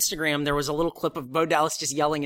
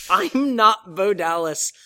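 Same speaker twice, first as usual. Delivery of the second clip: mock yell; 4 semitones higher, 4 dB louder, slower than usual. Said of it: "he yells".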